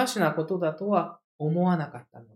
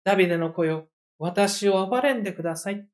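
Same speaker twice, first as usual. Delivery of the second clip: quiet humble plea. Shown as a demonstration. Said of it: "こういう含みを持つ言葉".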